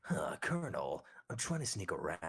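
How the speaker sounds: gruff whispered stealth soldier voice; Solid Snake voice. Retold or imitated. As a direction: rasp it like a sneaking soldier. Spot on Solid Snake impression.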